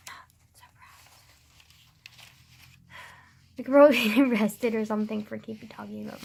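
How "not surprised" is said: a dry aside, whispered; deadpan whisper. Real, not acted. Joking to camera about murder, a deadpan whisper. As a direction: breathe it almost silently.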